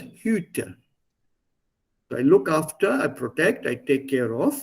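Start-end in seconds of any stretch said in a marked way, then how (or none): 0.0-0.8 "Hütte" set apart as a model word; pronunciation demo. Shown as a demonstration. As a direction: model "Hütte" carefully for a student. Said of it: "you have to pronounce it as".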